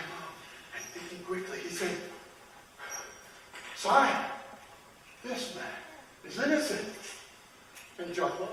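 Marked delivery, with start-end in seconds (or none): 3.8-6.9 high, halting plea; pleading subject. Acted. Shoemaker pleading to the king for the condemned, timid plea. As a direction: plead timidly with a higher-pitched voice.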